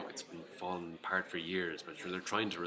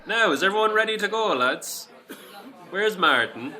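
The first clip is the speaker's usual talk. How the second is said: much louder and higher, calling the room; booming voice; 11 semitones higher, 13 dB louder, slower than usual. Acted. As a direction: boom across the pub for the lads. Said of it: "my uncle's booming voice".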